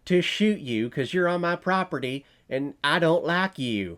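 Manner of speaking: mocking a reviewer's imitation of a Western tough guy; mock Western gun owner. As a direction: play the trigger-happy rancher warning off a trespasser, half in jest. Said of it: "You think I'm making fun of Westerns".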